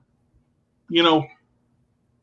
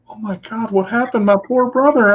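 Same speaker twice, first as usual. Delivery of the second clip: mock pity; 6 semitones higher than usual. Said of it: "and he's like".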